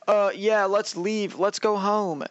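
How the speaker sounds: mock casual agreement. Imitates Reiner readily agreeing to leave.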